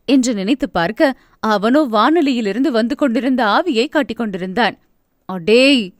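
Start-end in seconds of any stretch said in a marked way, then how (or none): 5.3-5.9 a touch of an exasperated snap through clenched teeth; mildly annoyed scolding of the kid brother; teeth-gritting scold. Acted. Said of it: "பல்லை கடித்தாள்".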